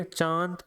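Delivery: चांद with the vowel through mouth and nose; nasalized vowel demo. Shown as a demonstration. Teacher showing nose-and-mouth sound, demo word. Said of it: "चांद बोलने के लिए आपको नाक पकड़िए".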